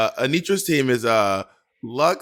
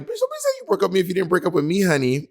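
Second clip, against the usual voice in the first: sassy imitated rant; 5 semitones higher, much faster than usual. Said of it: "I'd be like".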